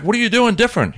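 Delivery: high, wondering question; retold amazement. Agent asking about his transformation, amazed. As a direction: imitate an impressed, curious agent.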